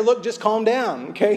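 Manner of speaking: a touch of patronizing calm; husband telling his upset wife to calm down, hammed up; exasperated husband. Acted husband calming wife.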